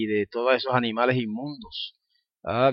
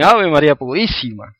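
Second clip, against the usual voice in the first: louder surprised exclamation; 2 semitones higher, 6 dB louder than usual. Retold or imitated. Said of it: "algunos van más allá y dicen".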